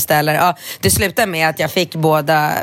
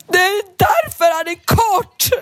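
put-on triumphant kid; 14 semitones higher, slower than usual. Rambo triumphantly explaining to the teacher, high shout. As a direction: blurt it like a kid who just solved it. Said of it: "sen bara".

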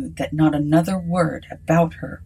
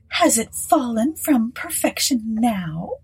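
higher, slow, pointed woman's voice; countering; 5 semitones higher, slower than usual. Acted. Mrs Sinclair countering Aylett's excuse, high and pointed. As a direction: fire it back at him. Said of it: "she countered".

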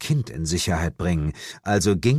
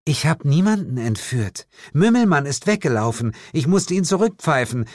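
lightly voiced witch, cool and dismissive; a hint of a haughty witch; 7 semitones higher, faster than usual. Witch rebuffing the hunter, lightly haughty. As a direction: brush him off like a proud witch.

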